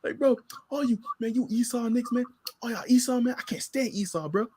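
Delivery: a hint of a fuming preacher; mock angry zealot. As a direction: grumble like a sulky zealot.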